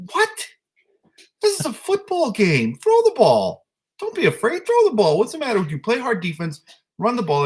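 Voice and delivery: high, loud sideline shouting; mock coach yelling. Coach yelling across the field at timid players, mock sideline shout. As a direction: bellow at the kids to throw it.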